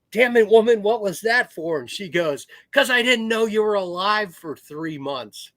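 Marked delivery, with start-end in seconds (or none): 0.1-1.8 higher, louder mock yelp at his wife; hammed-up old man protesting a punch; startled old man. Old veteran yelps at his wife after she socks him, loud and high. 2.7-5.5 put-on higher voice of a little old lady; lightly voiced wife, playfully scolding. Little old lady scolds her husband for the silence, higher mock voice.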